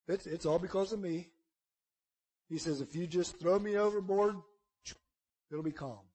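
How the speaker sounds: low, soft resigned admission; quiet confession. Acted. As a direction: confess it almost under your breath. Jonah confesses, voiced low.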